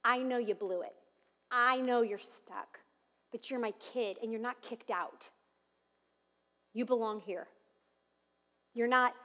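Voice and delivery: soft and tender reassurance; God's gentle voice. Pretend. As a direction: speak as a loving father, quietly. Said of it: "it's gonna sound like this".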